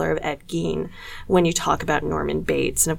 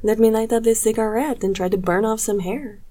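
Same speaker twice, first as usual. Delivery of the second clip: mock French accent; 4 semitones higher than usual. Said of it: "I can't do a French accent right now".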